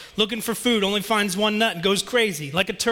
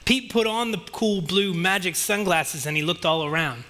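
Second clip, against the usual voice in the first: ordinary talk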